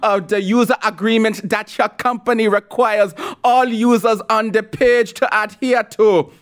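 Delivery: high, slow, affected mocking politician voice; mock Kamala Harris voice. Host mocking the senator's letter to Dorsey, prissy high voice. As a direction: lampoon her letter in a prissy, lilting voice. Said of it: "that's how they talk".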